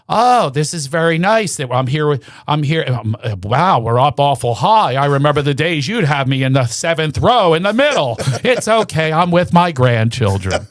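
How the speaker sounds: mock lament about the high seats; mother grumbling. Son voicing mother about the balcony seats. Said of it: "And she goes".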